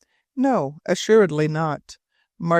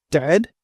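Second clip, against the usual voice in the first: "Dead" louder, with a sharp rise; emphasized questioning word; 5 dB louder than usual. A narrator's reading. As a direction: stress "Dead" as a rising question. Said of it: "emphasizing the word".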